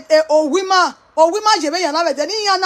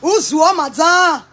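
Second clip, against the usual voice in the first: slow loud call; 3 dB louder, slower than usual. Acted. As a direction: call out to madam. Calls out loudly.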